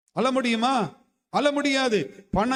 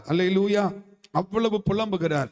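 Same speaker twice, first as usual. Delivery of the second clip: ordinary talk, nothing marked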